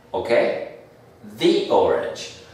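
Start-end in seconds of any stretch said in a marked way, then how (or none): 1.4-2.4 "the" with a long ee before orange; "the" as "thee". Shown as a demonstration. Teacher showing the article before a vowel, "the" as "thee". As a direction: slowly say "the" as "thee". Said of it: "la perfecta pronunciación sería the".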